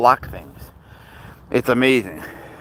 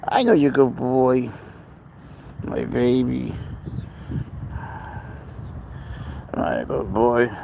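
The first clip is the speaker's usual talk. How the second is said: cooing at the cat. Real, not acted.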